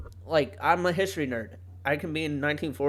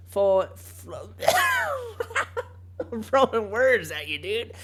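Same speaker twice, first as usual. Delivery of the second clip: tongue-tied, breaking up laughing; flustered laughing; 6 semitones higher, slower than usual. Real, not acted. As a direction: trip over the words and burst out laughing. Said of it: "I'm frustrated".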